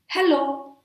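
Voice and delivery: high, projected "hello"; energetic greeting. Shown as a demonstration. Teacher modelling hello with energy, pitched high. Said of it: "let's project some energy".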